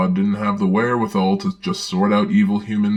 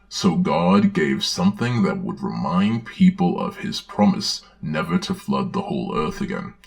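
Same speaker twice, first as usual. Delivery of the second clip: put-on gentle read-aloud for children; storybook reading. Narrator reading a Bible story to children, storybook voice.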